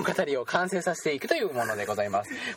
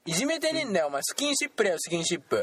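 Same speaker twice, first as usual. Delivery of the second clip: mock bully; 2 semitones higher than usual. Bully denies bullying, excuses.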